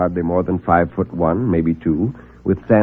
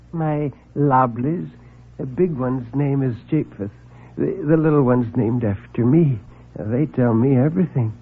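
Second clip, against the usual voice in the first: soft, halting, much quieter; timid little man; 3 semitones higher, 4 dB quieter than usual. Acted. Nervous visitor confessing to reporter, soft and halting. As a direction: stammer it out, shy and small.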